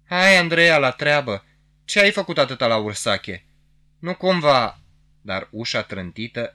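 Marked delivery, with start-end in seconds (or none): 0.1-4.8 higher, louder, teasing insinuation; insinuating voice. A narrator's reading. Office man slyly greeting Andreea at the door, insinuating. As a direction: needle her with a knowing tease. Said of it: "o voce insinuantă o întâmpină".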